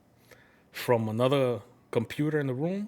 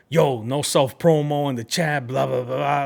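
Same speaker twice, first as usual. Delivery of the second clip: mocking a mod warning; 7 dB louder than usual. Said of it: "they warned me 'cause of that".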